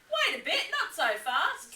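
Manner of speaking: a lightly voiced piping Echidna; whistled. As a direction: pipe up sharply as Echidna. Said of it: "he whistled".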